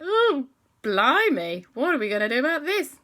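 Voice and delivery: mock posh British panic; British accent. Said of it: "They went a bit British".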